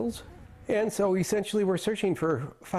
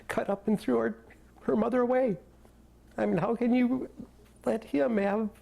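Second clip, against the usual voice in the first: halting, higher-pitched pleading in disbelief; anguished, choked up; 5 semitones higher than usual. Real, not acted. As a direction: voice climbing as grief breaks in. Grieving father pleads about granddaughter's custody.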